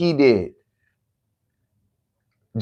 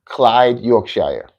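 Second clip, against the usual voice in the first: slow announcing; much slower than usual. Shown as a demonstration. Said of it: "C L Y D E Y O R K S H".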